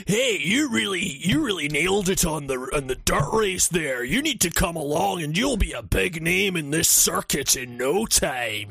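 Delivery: hammed-up fake Scottish NPC; bad game Scottish accent. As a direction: lightly imitate a bad video game Scotsman. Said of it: "the guy's Scot".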